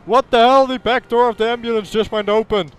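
hammed-up, high-pitched alarm; mock panic. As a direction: yell as if everything is going wrong. Ambulance door opens, game surgery goes wrong.

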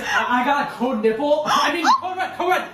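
high, laughing fake alarm; mock panic. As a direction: pretend emergency to the squad. Fake panic to gaming friends.

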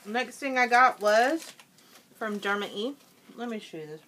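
talking through a mouthful; chewing. Real, not acted. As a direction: still chewing while talking. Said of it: "Sorry, I know I'm chewing".

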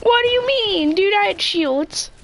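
shocked it didn't hold up; outraged disbelief. Real, not acted. Outraged at dying.

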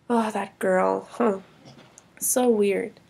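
baffled. Acted. Brother muttering about sister.

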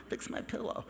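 a faint, breathless patient's whisper; feeble whisper. Retold or imitated. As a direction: whisper weakly from the hospital bed. Patient asks the nurse.

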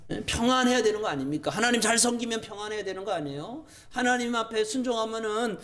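high, insistent rhetorical questions; indignant acted complaint; arguing with God. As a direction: demand answers like an aggrieved prophet. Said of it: "예레미야가 막 따지듯이 물어요".

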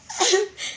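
short high laugh; brief, overwhelmed laugh; real laugh. Real, not acted. Streamer trying to name the gift, short laugh.

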